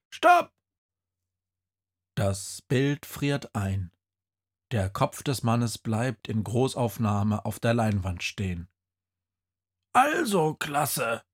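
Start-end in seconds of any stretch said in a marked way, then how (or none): 0.1-0.5 much higher, louder sudden call; shouted stop. Acted. Teacher halting the film, shouted. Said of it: "ruft jemand". 9.9-11.2 grab the class's attention; calling the class. Acted. Headless teacher calling to the class of monsters. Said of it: "ruft das Wesen".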